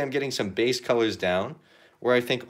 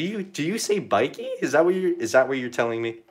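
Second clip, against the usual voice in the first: mock outrage. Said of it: "just messing with you".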